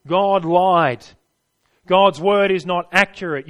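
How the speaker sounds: loud, blunt voice of the deceiver; bold lie. Acted. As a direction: hammer it home as the serpent's brazen lie. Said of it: "That's what he says".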